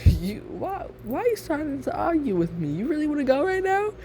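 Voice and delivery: high-pitched, incredulous challenge; confrontational challenge. Acted. You square up to Travis in an argument, high confrontational challenge. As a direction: pitch climbing into a mock-indignant dare.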